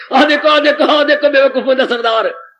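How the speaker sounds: jeering passerby pointing out a fool; mocking call. Passerby mocking man on horse.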